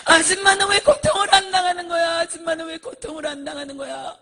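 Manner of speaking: high, loud wail of accusation; imitated screaming. Tormented people asking why she suffers nothing, screaming. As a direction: cry it out at the top, then let it drop. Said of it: "소리를 지르는 거예요".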